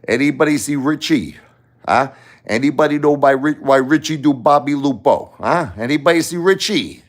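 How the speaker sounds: high, hushed tough-guy Seagal voice; menacing street cop voice from Out for Justice; Steven Seagal impression. Retelling the Seagal scene in his voice. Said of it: "Remember Steven Seagal say".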